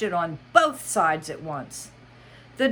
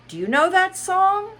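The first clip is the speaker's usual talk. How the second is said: Mad Hatter voice; 7 dB louder than usual. Acted. Hatter asks.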